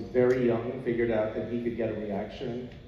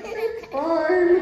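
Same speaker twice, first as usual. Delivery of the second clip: breezy; 5 dB louder than usual. Retold or imitated. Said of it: "And I'm like".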